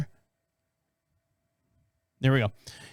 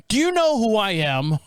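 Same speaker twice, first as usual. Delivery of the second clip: mock arrogant cop; 2 semitones higher than usual. Imitating the cop bragging to the driver. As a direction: play the entitled cop, laughing.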